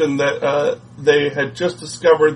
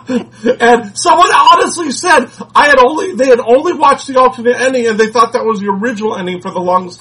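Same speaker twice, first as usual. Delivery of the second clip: laughing; 7 semitones higher, 3 dB louder than usual. Real, not acted. Laughing while retelling.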